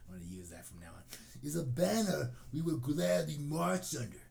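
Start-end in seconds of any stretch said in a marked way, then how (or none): 1.4-4.2 raised, declaiming mock outrage; all-caps internet rant. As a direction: proclaim it like a post typed in capitals. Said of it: "responded in all caps".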